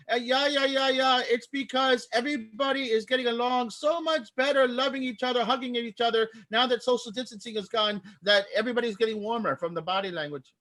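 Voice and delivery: high, put-on German accent; bad German accent. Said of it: "My bad German accent".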